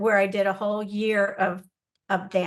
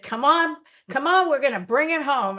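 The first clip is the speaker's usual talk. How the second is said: excited urging; 5 semitones higher, 4 dB louder than usual. Retold or imitated. Star urging her on stage.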